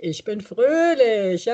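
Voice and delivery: slow, giggling through it; laughing yoga chant. Shown as a demonstration. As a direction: let the laugh carry the words. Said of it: "es geht los mit".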